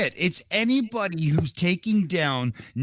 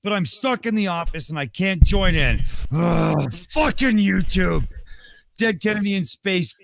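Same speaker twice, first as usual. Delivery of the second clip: higher, louder ranting voice, near shouting; Dick Dawson voice; 4 semitones higher, 4 dB louder than usual. Acted. Reading a stuck-in-the-office viewer's comment aloud, furious higher shout. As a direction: rage through it like a furious viewer who can't get a word in. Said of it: "I think this needs the, the Dick Dawson voice".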